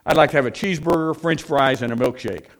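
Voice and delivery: brisk, loud counter order. Acted. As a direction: blurt out the order at full voice. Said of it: "in a very loud voice".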